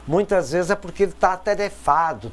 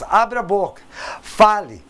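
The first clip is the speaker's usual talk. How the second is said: encouraging call; 5 semitones higher, 4 dB louder than usual. Retold or imitated. Estatuto encoraja criança a falar.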